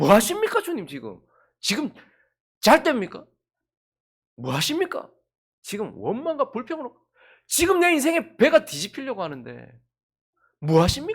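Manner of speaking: loud, angry, aggrieved complaining outburst. Voicing the disciples' complaints to the Lord in a sermon, mock-angry complaining. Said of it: "불평, 원망, 분노, 두려움 이런 것들로 지금 감정이 완전히 폭발해 있는 상황".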